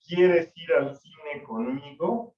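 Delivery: slow, with a rising question tune. Shown as a demonstration. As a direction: ask it slowly, as an invitation. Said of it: "el ejemplo". (pregunta lenta con entonación ascendente)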